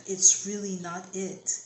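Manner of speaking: insistent stress on "really not"; emphatic. Real, not acted. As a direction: hit "really not" hard and loud. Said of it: "They're emphasizing on that".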